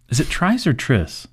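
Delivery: first Tris rhymes with "rise", second Tris with "miss"; two pronunciations. Shown as a demonstration. Host asking which name is correct, contrasting two pronunciations. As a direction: say Tris as "Trise", then as "Triss". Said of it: "I've heard both".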